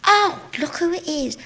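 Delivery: put-on high, excited old guard; a high cheery call from the old guard; old guard's greeting. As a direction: greet her like a delighted old soldier. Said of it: "he went".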